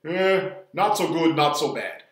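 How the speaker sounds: lightly imitated Greek accent; heavy Greek accent. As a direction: imitate a Greek diner owner's accent, starting slow. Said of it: "with this really heavy Greek accent".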